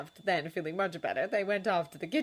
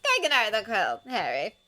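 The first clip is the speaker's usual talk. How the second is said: firm; 5 semitones higher, 6 dB louder than usual. A narrator's reading. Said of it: "said Rita Skeeter firmly".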